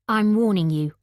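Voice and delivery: threatening Dev. Acted.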